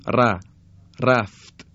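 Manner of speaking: heavy, full R in رفت. Shown as a demonstration. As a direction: give رفت a thick opening R. (رفت با «ر» درشت)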